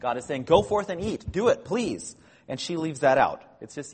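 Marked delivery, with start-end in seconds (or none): 0.4-2.2 higher-pitched emphatic invitation, quoted; strong, emphatic urging. Retold or imitated. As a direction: urge them on as if relaying a generous command. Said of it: "this strong emphatic form".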